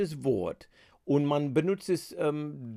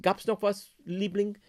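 mildly sarcastic; 6 semitones higher than usual. Shown as a demonstration. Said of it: "leicht sarkastisch".

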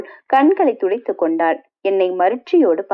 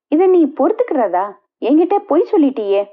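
higher-pitched, disbelieving rebuke; indignant reproach; 4 semitones higher than usual. Acted. Friend reproaches the wife for lying, indignantly. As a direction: protest at being deceived.

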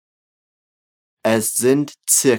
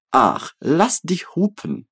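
slow, clear Ach, lass dich hupen; teacher modelling it slowly; slow model phrase; 3 semitones higher than usual. Shown as a demonstration. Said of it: "So, mit mir".

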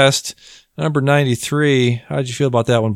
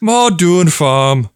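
mock Irish accent; 2 semitones higher, 3 dB louder, much slower than usual. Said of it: "struggling with that accent".

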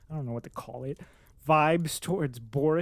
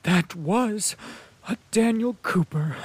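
a bright, louder, higher cry of delight; delighted exclamation; 4 semitones higher, 6 dB louder than usual. Acted. Maria Dmitrievna cheering the Count's dance, loud delighted exclamation. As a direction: exclaim it like an amused old lady. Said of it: "exclaimed Maria Dmitrievna".

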